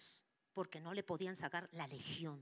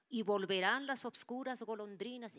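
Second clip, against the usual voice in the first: proclaiming the verse; 4 semitones higher, 5 dB louder than usual. Retold or imitated. Demon recites the secret verse.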